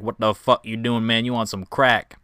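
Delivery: lightly put-on Southern accent; a hint of Southern redneck talk. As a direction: slip into a Southern twang. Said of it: "I keep turning southern".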